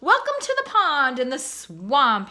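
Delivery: loud, grand fatherly welcome; cob's speech. A narrator's reading. Cob addressing his cygnets, loud and grand. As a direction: open a proud formal speech. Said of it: "he began making a speech".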